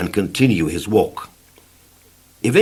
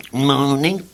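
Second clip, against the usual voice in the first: cheerfully; 4 semitones higher than usual. Acted. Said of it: "said the worm cheerfully".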